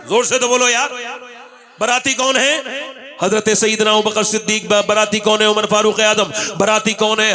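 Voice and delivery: loud questions to the crowd; call and response preaching. Acted. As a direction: fire questions, give answers.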